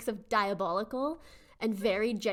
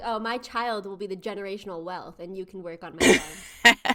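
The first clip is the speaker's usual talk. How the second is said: smug rich father; 3 semitones lower, 6 dB louder than usual. Retold or imitated. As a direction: lord it over the worker like a nepotist farmer. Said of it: "He's like".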